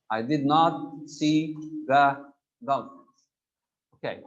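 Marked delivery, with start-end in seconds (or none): 0.1-3.2 slow, with "not" stressed; "not" pressed firmly in a slow negative; slow teaching read, "not" clearly stressed. Shown as a demonstration. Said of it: "Making a sentence negative".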